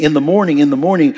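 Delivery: "morning" stressed each time it repeats; emphasis on MORNING. Shown as a demonstration. Preacher pointing out the psalm's repetition, stressing "morning". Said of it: "you notice the emphasis on the morning".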